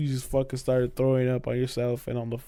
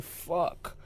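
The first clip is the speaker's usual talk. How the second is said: breathless, unvoiced whisper of dismay; a whispered curse on waking up hungover; 12 dB quieter than usual. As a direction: hiss it under your breath. Hungover morning realisation.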